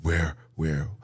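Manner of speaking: a hint of a halting old president; stammering, lost old man voice; mock Biden. Mocking the president's halting speech. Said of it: "that's how he talks".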